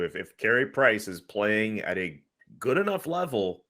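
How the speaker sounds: ordinary delivery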